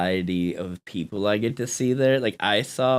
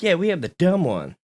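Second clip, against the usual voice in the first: laughing through the line; laughing imitation; laughing mock reply; 6 semitones higher than usual. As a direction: giggle while voicing it. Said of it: "It's like".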